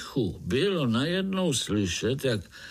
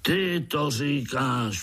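raging; 5 semitones higher, slower than usual. Acted. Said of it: "vztekal se Piši Škvor".

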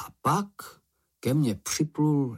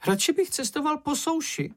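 very high nervous small creature; high fretful little voice; Čenich grumbling. A narrator's reading. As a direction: whine it high, wanting dry land. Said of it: "řekl Čenich".

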